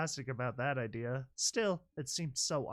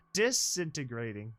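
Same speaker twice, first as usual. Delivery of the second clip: robot voice; 3 semitones higher, 3 dB louder than usual. Acted. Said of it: "an automated voice".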